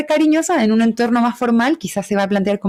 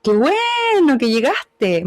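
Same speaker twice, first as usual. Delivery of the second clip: slower; 3 semitones higher, much slower than usual. Shown as a demonstration. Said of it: "Más lento".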